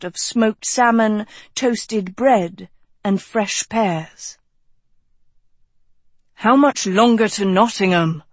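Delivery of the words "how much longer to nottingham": slightly pressing, impatient question. Acted. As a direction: ask it like you can't wait any longer. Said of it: "Tedros asked impatiently".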